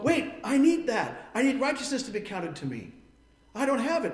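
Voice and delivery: the penny drops for a reader of Scripture; sudden realization. Retold or imitated. Reader of Scripture suddenly seeing their need. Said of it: "read this and go".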